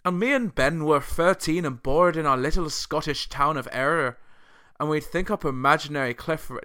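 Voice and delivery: put-on Scottish accent slipping towards Irish. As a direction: imitate a Scottish band member, accent wobbling into Irish. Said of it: "that was a Scottish accent".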